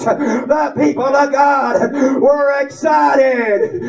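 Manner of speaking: ringing, shouted preaching with tears; revival preaching. Acted. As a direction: lift the room, voice breaking.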